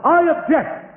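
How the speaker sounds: high-pitched interjection from the crowd; mock shout. A voice interrupts the judge at the wedding, mock shout. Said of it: "And a voice shells out".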